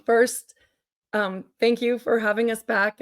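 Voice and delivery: real strained, tired voice. Real, not acted. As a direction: speak through a strained voice. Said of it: "I'm sorry if my voice is strained".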